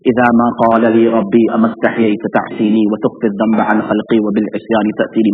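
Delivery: fast rhythmic Arabic verse recital; poem recitation. Acted. Preacher reciting Arabic verse on shame before God, fast recital. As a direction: chant the lines in one breath.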